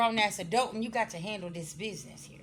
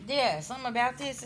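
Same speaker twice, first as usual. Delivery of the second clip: higher, louder, sure of it now; emphatic repeat; 5 semitones higher, 3 dB louder than usual. Real, not acted. Reader confirming what the cards show, higher and emphatic. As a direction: land it with conviction. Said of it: "reader repeats with more force".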